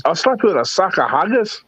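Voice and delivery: hammy fake Scottish brogue, pushed harder; Scottish accent. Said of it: "that's a terrible Scottish accent".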